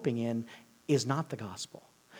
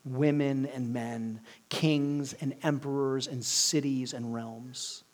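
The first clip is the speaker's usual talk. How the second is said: slow, measured delivery for a lion; lightly voiced lion; much slower than usual. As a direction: lightly suggest a lion, drawing the list out slowly. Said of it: "And the lion says".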